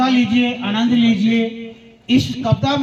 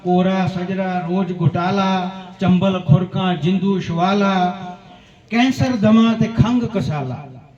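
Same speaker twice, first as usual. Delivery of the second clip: poem recitation. Acted. Poet recites anti-addiction verse to listeners, rhythmic recitation. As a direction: recite in chanting metre, landing each rhyme.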